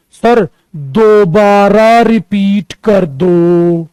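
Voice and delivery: slow, mock student's plea; student asking. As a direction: play the student asking to repeat. Student voiced in story. (छात्र की धीमी विनती)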